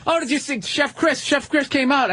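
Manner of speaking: high, bright cheerful voice; excited friend telling news; lightly voiced chirpy comic. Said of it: "he goes".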